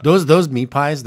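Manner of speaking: meat pies in a light Arab accent; a hint of an Arab accent. Shown as a demonstration. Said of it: "I have to say it in that, that voice".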